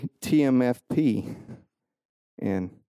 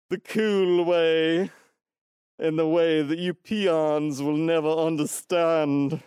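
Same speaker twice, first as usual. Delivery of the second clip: stupid voice; 4 semitones higher than usual. Pretend. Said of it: "for me to do that stupid voice".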